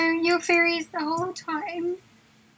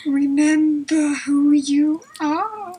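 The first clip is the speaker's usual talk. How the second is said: Rafiki; 6 dB louder, slower than usual. Retold or imitated. Quoting Rafiki and Simba scene.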